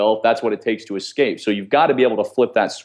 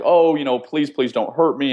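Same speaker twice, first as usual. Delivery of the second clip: sheepish plea; 4 semitones higher than usual. Retold or imitated. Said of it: "acting very sheepish and wimpish".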